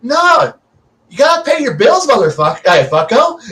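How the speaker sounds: high pitched thug voice; a high mock gangster bark; mock tough players. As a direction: play the players as pushy debt collectors. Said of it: "they all went".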